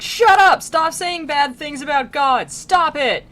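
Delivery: high, loud mock outburst; Virgil with no chill. Guide silencing a blaspheming soul, comic furious yell. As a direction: yell it in hammed-up exasperation, punching each command. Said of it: "Virgil has no chill for him".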